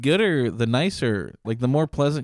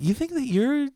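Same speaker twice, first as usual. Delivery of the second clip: high, breathless fake-psychic voice; hammed-up psychic pitch; mock psychic; 11 semitones higher than usual. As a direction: play a scammy psychic leaning in.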